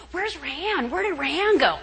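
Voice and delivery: hint of puzzled dinner guests; mock searching guests. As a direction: imitate people asking after someone missing. Imagined tablemates wondering where she is.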